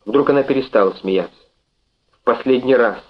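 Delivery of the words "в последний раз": lightly acted menacing shout; threatening cry. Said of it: "с угрозой крикнула она".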